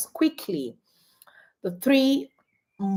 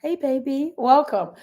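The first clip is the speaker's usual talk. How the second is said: soft-spoken; 2 semitones higher than usual. Shown as a demonstration. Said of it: "That soft-spokenness".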